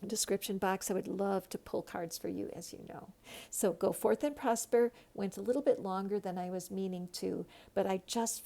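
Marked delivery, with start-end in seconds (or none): 3.5-4.9 loud, bright farewell blessing; rousing send-off. Real, not acted. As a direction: proclaim it like a cheerful blessing.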